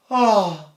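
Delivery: a loud sigh drawn back and down; reverse sigh. Shown as a demonstration. Teacher showing students the reverse sigh. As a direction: sigh backward and down on ah. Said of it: "I'm gonna do it in reverse".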